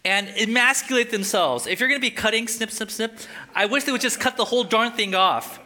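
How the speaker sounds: high, loud, heated outburst in character; Paul's angry passion. Acted. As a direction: hammer it out in acted exasperation. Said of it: "how passionate he is about this".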